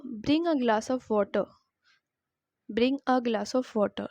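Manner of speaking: each word spelt out slowly for learners; slow model sentence. Shown as a demonstration. Teacher to students, slow clear model sentence. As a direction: say it very slowly so students can copy. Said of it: "Repeat after me".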